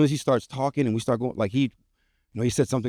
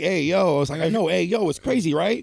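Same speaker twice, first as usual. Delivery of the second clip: excited; 7 semitones higher than usual. Retold or imitated. Kids' reaction voiced, high.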